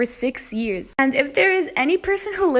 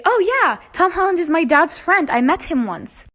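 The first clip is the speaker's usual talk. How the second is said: lightly voiced boastful girl, higher at first; boastful liar; 3 semitones higher, 3 dB louder than usual. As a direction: imitate her casually bragging, starting high. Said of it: "She'd just come in and say".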